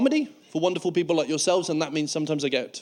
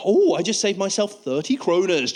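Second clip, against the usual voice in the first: smug excitement; slower than usual. Retold or imitated. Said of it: "think to yourself".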